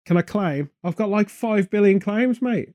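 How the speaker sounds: light mock Australian accent, rising on mate; a hint of Australian twang for the insurance claim; loosely Australian-accented bloke. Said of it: "I don't know why he's Australian".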